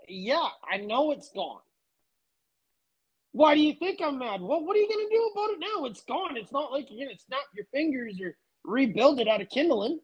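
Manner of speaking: needling the furious boss with a grin; cheeky retort. Retold or imitated. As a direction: rattle it off like a smart-aleck. Retold retort to the angry boss.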